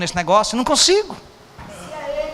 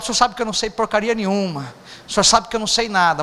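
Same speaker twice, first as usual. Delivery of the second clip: humble prayer. Retold or imitated. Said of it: "Hoje eu falo".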